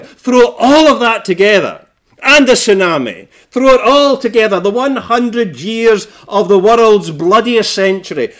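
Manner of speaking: insistent, building list with punched key words; emphatic preaching. Acted. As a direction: preach it forcefully, piling up each disaster. Preacher builds a catalogue of catastrophes.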